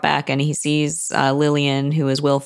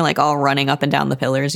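usual speaking voice

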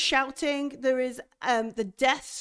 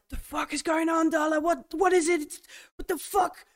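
panicked yelling; 7 semitones higher than usual. Acted. GM voicing Farouk panicking at Darla, high frantic yell. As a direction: yell it in terror, much higher.

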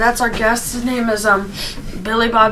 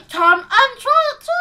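ad voice; 4 semitones higher, faster than usual. Acted. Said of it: "that could be an ad".

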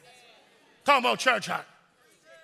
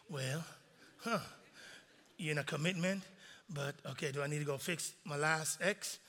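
mock sly question; 8 semitones lower, 15 dB quieter than usual. Mimicking congregant's sly question.

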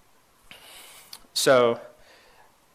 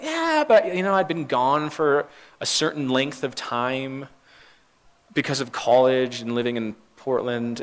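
brushing it off in a lightly raised voice; mock protest; 3 semitones higher, 3 dB louder than usual. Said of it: "'cause I was always like".

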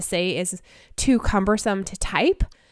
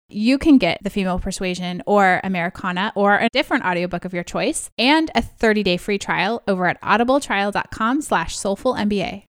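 ad read. Acted. Sponsor call to action.

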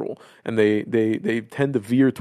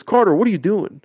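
outraged plea; 4 semitones higher than usual. Retold or imitated. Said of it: "He goes".

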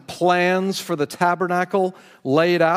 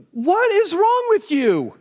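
much higher, slow, louder pious rebuke; mock righteous Aaron; 13 semitones higher, 4 dB louder, slower than usual. Preacher faking a pious Aaron, high and slow. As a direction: ham up a holy refusal that never happened. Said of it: "Oh, no, that's not what he said".

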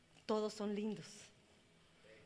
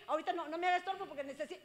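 fast, hurried brush-off; busy parent dismissing; 5 semitones higher, much faster than usual. Pretend. Parent brushing off the child, fast and hurried. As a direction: rattle it off, too busy to listen.

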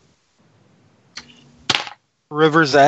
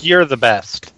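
insincere praise; 2 semitones lower than usual. Acted. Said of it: "Make a deception roll".

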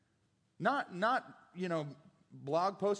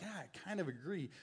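quick, much softer confession; wry aside; 2 semitones lower, 10 dB quieter, faster than usual. Real, not acted. Preacher half-admitting to the congregation, softly. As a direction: toss it off under your breath.

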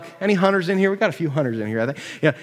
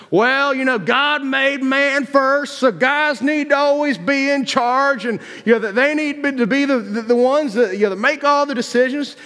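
mock opinionated voice; 7 semitones higher than usual. Preacher voicing people on the right side, mock opinionated voice. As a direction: voice the other side, pitched up and stretched.

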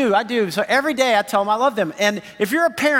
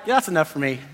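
soft, contented daughter; 5 semitones lower, faster than usual. Retold or imitated. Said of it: "just the way she said it".

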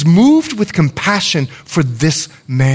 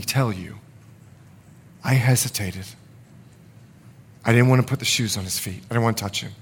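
softer, low, ashamed recollection; ashamed confession; 3 semitones lower, 4 dB quieter than usual. Real, not acted. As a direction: confess it quietly with real shame. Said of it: "I want you to hear the shame in my voice".

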